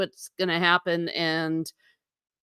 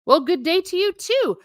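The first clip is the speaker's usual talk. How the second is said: higher, sing-song good day to you; light hint of an Australian greeting; mock Aussie greeting; 9 semitones higher than usual. Answering an Australian viewer's greeting, a light mock Aussie lilt. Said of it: "I'm assuming that means ... Australian".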